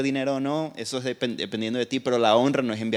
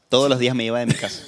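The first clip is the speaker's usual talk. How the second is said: entre risas; 3 dB louder, faster than usual. Real, not acted. Jokes about leaving home daily.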